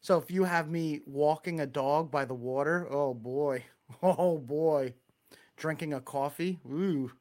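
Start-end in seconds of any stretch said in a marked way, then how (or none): 1.1-4.9 thick Long Island vowels on dog and water; Long Island accent. Shown as a demonstration. Showing off walking the dog, Long Island accent. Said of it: "whole lot of Long Island accent". 5.6-7.1 Long Island vowel in "coffee"; Long Island accent. Shown as a demonstration. Showing listeners the local coffee vowel, Long Island accent. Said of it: "whole lot of Long Island accent".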